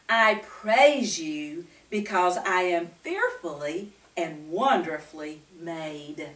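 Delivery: slow, reverent reading; reading scripture aloud. Acted. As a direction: read each word carefully, with reverence.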